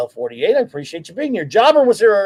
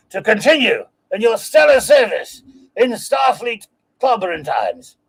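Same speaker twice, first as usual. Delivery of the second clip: hammed-up Cockney farewell, pitched up; a Yank faking Cockney badly; bad Cockney accent; 2 semitones higher than usual. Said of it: "I know that was not Cockney at all".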